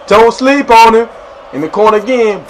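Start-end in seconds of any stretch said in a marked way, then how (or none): 0.1-1.1 slower, higher, louder repeat; emphatic hype. Acted. Warning viewers about teammate Shaggy, emphatic. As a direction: lean hard into each word.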